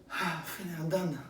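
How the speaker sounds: low, quiet sigh of being done; perfunctory relief. Acted. Speaker mimicking himself finishing prayer like a robot, perfunctory. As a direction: toss it off softly, like finishing a chore.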